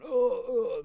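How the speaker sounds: high, weak moans of a dying man; mock dying groan. Shot suspect groaning on the ground, mock dying moans. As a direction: imitate a man groaning his last. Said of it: "'cause he's almost dead".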